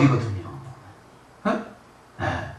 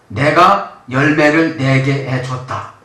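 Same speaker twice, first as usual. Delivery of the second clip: slow emphatic quote; 3 semitones lower, slower than usual. Shown as a demonstration. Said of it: "열매를 내다니까요".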